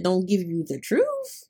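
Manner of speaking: "Don't give you the truth?" drawn out slowly as a question; questioning tune. Retold or imitated. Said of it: "Question mark?".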